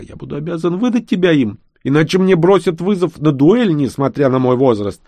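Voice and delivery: lightly voiced old baron, a touch lost; bewildered baron. A narrator's reading. Old baron explains the law to the boy, mildly bewildered. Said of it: "растерянно говорил барон".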